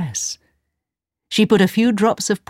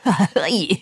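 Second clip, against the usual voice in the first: wizard chuckle; 2 semitones higher than usual. A narrator's reading. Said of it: "The wizard laughed".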